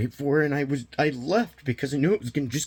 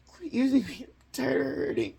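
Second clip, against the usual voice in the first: mild mock yell, pitched higher; retold scream; 7 semitones higher, 3 dB quieter than usual. Retelling screaming in his partner's face, higher and strained. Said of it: "I screamed at her right in her face".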